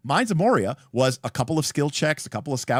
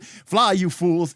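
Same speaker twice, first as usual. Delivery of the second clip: shouted Gandalf line; 6 semitones higher, 5 dB louder, much slower than usual. Retold or imitated. Gandalf falling, retold movie line.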